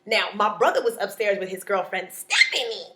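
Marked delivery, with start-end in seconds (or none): 2.1-2.9 mock girlfriend's name; lightly mocking name call; mocking Stephanie's sound. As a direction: say the name as a put-on imitation. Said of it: "That's how she sounded".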